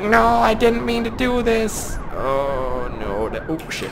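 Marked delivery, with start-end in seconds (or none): 0.0-2.0 voicing driver. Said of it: "He's like".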